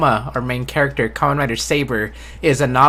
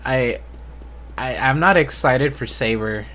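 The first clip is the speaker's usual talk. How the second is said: flat, monotone, unenthused delivery. Real, not acted. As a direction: say it in a monotone, no enthusiasm. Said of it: "my monotone voice".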